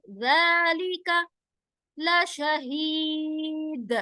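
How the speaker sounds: slow melodic tajweed; Quran recitation. Shown as a demonstration. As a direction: recite each word drawn out. Recites verse between rules.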